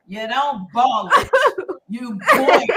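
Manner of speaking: "boil" hit loudly against "ball"; smart-aleck correction. Retold or imitated. Twelve-year-old correcting her English teacher, cheeky stress on "boil". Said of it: "me and my little smart aleck self".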